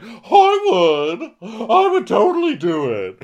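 very loud, high mock holler; volunteer at the top of your voice; imitated over-keen yell; eager shout. Eager volunteer calls out in retelling.

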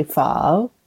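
pho drawn out languidly like a question; slow, languid pho. Shown as a demonstration. Teacher coaching podcast hosts on pronunciation, slow and languid. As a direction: stretch pho slowly with a questioning tone. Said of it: "just say it kinda slowly".

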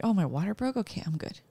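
easy, settling acceptance; relieved. Retold or imitated. Wife recalling her water breaking, relieved and calm. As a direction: let it drop off softly into reassurance. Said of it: "I was relieved to know".

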